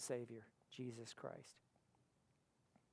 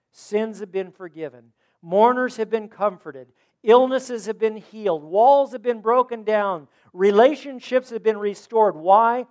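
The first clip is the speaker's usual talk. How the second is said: swelling from plain to loud and higher; building preaching; 6 semitones higher, 18 dB louder than usual. Acted. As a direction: stack each line louder toward the Why. List of blessings, building up.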